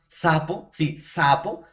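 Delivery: "Sapo" with air let out on the opening S; airy S. Shown as a demonstration. Teacher proving air comes out, demonstrative airy S in "sapo". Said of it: "Sale aire".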